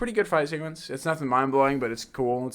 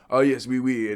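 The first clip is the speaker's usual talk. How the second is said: put-on French accent; 3 semitones lower than usual. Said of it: "His accent drops".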